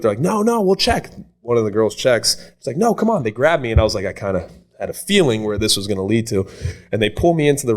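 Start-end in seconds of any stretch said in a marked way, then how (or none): 0.2-1.1 high mock girl voice; imitated girl. Imitating girls coaxing him. 2.8-3.2 high-pitched mock girl voice; coaxing girl. Imitating girls coaxing him.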